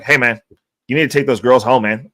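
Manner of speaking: a light hint of a Vietnamese accent, set cadence; lightly imitating his Vietnamese buddy's rhythm. Mimicking Vietnamese buddy waking him up, light Vietnamese cadence. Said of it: "'cause he's Vietnamese ... they have a cadence".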